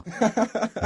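high, breathy burst of laughter; loud laugh. Acted. Suitor laughing at the mother's shock. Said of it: "Hai Lân cười to".

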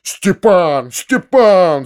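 shouting for Stepan. A narrator's reading. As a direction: call the servant urgently. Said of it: "закричал дядя". (окликает Степана, громко)

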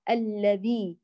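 careful الذي, vowel clearly ee; full kasra. Shown as a demonstration. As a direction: say الذي with a clean th and long ee. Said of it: "الكسرة".

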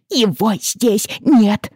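high, slow, loud insistent cry; stubborn wail. Acted. Crying girl insisting to her father, high and slow. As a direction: insist through tears. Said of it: "упрямо повторяла Аманда".

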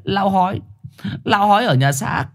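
frightened stray insisting. Acted. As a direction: plead to be believed. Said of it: "Trùn vớt vát".

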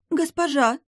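high, scared call; frightened maid calls her mistress, high; trembling frightened voice. Acted. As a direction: call out shaking with fear. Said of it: "дрожащий голос напуганной служанки".

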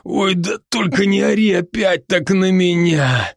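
бодрый, чуть выше голос друга-оборотня; успокаивает друга, слегка играя роль; Рон, заботливый друг. Acted. Ron's voice again. (оборотень Рон уговаривает друга дышать)

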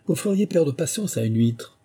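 high-pitched sour retort. A narrator's reading. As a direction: complain tartly, voice lifted. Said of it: "d'un ton aigre".

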